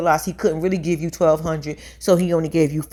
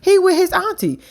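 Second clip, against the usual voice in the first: mocking high shout; 10 semitones higher than usual. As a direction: shout it laughing at her. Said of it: "I said".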